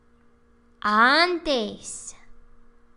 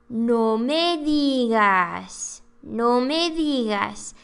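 sarcastic demo; slower than usual. Shown as a demonstration. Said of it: "It's kind of sarcastic".

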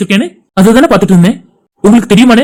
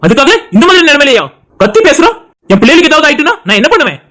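higher-pitched, agitated protest; angry; 4 semitones higher than usual. Acted. Husband fearing for unborn children, angry protest. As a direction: argue back, worked up and worried. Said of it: "சரி சிவா, கோவப்படாத".

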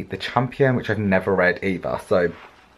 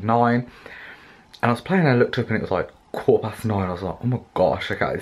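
retainer lisp. Real, not acted. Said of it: "Excuse me if I have a lisp".

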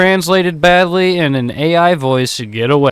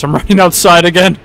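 laughing; 4 semitones higher, 6 dB louder than usual. Real, not acted. Laughing while fleeing the fight.

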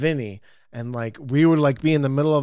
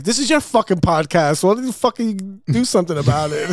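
higher-pitched retold demand; mock exasperation; 6 semitones higher, 3 dB louder than usual. Co-host tells host to control his own podcast, mock exasperated demand. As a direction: complain like a fed-up co-host. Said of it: "he's like".

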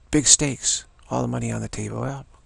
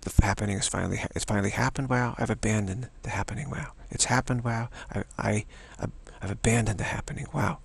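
calm. Shown as a demonstration. Teacher models the calm noting practice for students. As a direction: say it like a simple calm observation. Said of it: "but doing it calmly".

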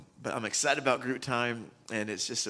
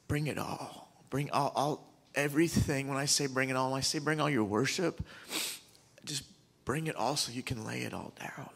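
emotional; 4 semitones higher than usual. Real, not acted. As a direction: plead from a full heart, voice giving way on the last words. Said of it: "I'm so sorry I'm emotional".

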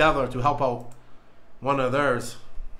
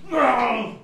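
high, whiny mock cry; half-hearted wailing no; 7 semitones higher than usual. Real, not acted. Dreading the chip.

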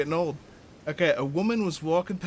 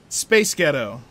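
American accent; 7 dB louder, slower than usual. Shown as a demonstration. Trying out an accent joke from the comments, American accent. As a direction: Space Ghetto in an American accent. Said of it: "in an American accent".

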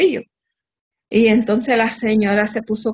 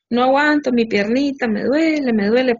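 mock whining husband; 3 semitones higher than usual. Wife imitating husband moaning about his leg, mock whine. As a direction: play the pitiful patient.

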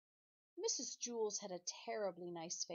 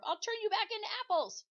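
much higher and louder threat; threatening shriek; 13 semitones higher, 10 dB louder than usual. Acted. The teacher threatens the children, shrieking. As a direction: hurl the threat at them. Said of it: "screamed Missus Scorf".

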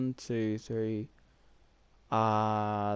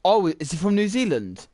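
surprised; 8 semitones higher, 8 dB louder than usual. Real, not acted. Realising player's nationality.

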